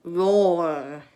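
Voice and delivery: roar. Shown as a demonstration. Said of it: "I'm not a good screamer".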